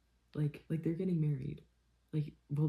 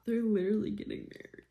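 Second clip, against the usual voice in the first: excited squeal; 7 semitones higher than usual. Real, not acted. Excited reaction, high.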